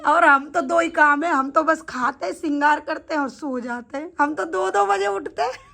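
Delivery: carefree boast ending in laughter; amused nonchalance. Retold or imitated. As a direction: list it cheerfully, then burst out laughing. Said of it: "वो हंस हंस के ये बात बोल रहा है". (मज़े से गिनाते हुए हँस पड़ना)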